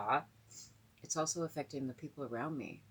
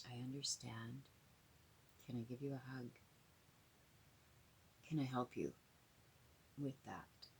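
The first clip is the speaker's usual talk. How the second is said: gentle offer of help; 2 semitones lower, 10 dB quieter than usual. Retold or imitated. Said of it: "they just kept saying".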